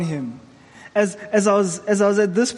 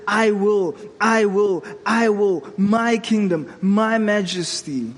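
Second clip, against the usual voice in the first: proud king. Retold or imitated. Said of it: "Every time he says".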